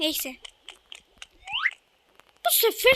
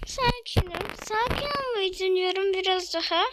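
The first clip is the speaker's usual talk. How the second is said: trying to stay calm. Real, not acted. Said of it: "Tamam, sakinim".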